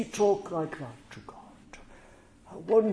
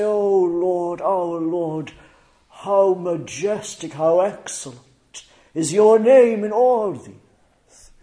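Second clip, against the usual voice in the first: louder, soaring psalm praise; 8 dB louder than usual. Pretend. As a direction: proclaim the psalm with rising force. Preacher proclaims psalm praise.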